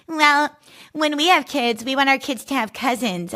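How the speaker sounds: put-on sister-in-law pressing about kids; mock in-law. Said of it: "being like".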